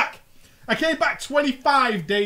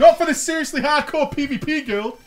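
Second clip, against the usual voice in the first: loud mock Scouse accent; 6 semitones higher, 7 dB louder than usual. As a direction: slip into a Liverpool twang. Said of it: "You are getting scouse".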